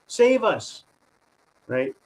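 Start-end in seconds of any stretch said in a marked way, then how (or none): 0.1-0.8 mock scared plea.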